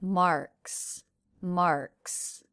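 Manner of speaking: "Marks" ending in a voiceless ks; unvoiced ending. Shown as a demonstration. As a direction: end "Marks" on a crisp hissed ks.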